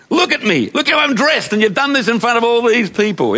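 high flustered protest, lightly acted; insecure fluster. Adult surprised in public, mildly flustered insecure protest. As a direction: act embarrassed at being fussed over.

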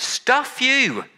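sharp high stuff you; angry dismissal. Retold or imitated. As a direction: fling it away in disgust. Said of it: "we expect God to say".

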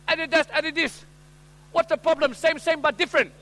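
put-on high-pitched Asian-accented shopkeeper; hammed-up Asian-accented salesman; Asian accent, dismissive. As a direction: brush off the complaint in an Asian accent. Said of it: "this time with an Asian accent".

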